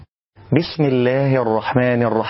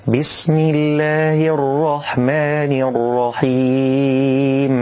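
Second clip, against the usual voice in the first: slow, drawn-out chanted recitation; tajwid recitation; 2 semitones higher, much slower than usual. Shown as a demonstration. Teacher recites the correct basmala.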